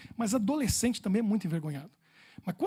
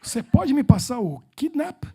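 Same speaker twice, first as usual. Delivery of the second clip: slow, louder and higher, laughing through it; laughing repeat; 5 semitones higher, 9 dB louder, slower than usual. Retold or imitated. Retelling his repeated blunder to the audience, laughing. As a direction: repeat the blunder while cracking up. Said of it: "E repeti".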